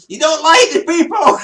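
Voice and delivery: high, loud mock shout; retold shout. Visitor loudly repeating the historian's secret, mock shout. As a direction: blurt it back at full volume, imitating yourself. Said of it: "you know I shout".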